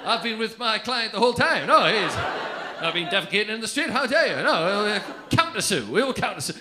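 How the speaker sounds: loud pompous lawyer defence; mock lawyer. The speaker defending himself like a lawyer, mock indignant. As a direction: argue like a hammed-up lawyer. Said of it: "like he's fucking lawyer".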